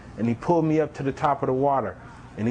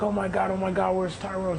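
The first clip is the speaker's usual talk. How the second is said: mock panicked scream; 5 semitones higher than usual. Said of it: "She's just screaming".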